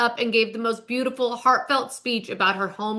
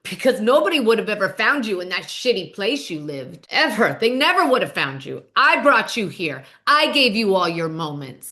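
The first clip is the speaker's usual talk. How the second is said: lightly voiced haughty mean girl tearing someone down; Brazilian mean girl; 3 semitones lower than usual. Adriana telling Julia she owes her everything, a lightly voiced mean-girl jab. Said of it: "goes full Brazilian mean girl".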